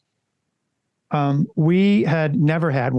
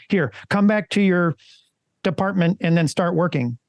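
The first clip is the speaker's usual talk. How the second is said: stiff mechanical robot voice, pitched higher; 4 semitones higher than usual. Shown as a demonstration. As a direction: say it like a robot reading orders. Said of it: "Did I sound like a robot? I tried to".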